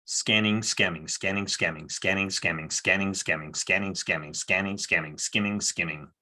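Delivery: low, rhythmic tongue-twister run; tongue-twister attempt. Shown as a demonstration. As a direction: rattle the similar words off in an even beat. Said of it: "repeat five times fast".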